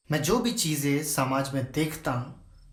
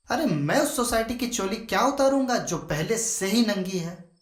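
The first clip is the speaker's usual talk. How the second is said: higher-pitched, exasperated rhetorical outburst; indignant retort; 6 semitones higher than usual. Acted. Accused writer answering critics of his stories, indignant. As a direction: throw it back at the critics, pitch raised.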